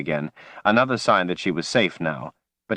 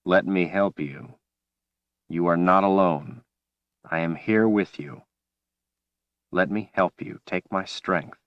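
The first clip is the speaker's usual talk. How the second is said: calm voice. Acted. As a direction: soothe her back gently. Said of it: "He spoke her name in a calm voice".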